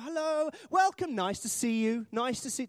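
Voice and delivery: high-pitched mock greeting; drawn-out, high hellos; gushing church greeter. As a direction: parody an over-keen door greeter. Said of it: "you step in the front door and they go".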